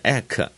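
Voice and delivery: ec said as hard 'ek'; wrong EK sound. Shown as a demonstration. Teacher warning against a misreading, ec as hard 'ek'. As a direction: say ec with a k, not a g. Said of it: "不是念ec".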